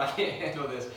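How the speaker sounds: lightly acted overwhelm, low voice; overwhelmed king. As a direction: mildly play a king who can't cope. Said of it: "I'm overwhelmed".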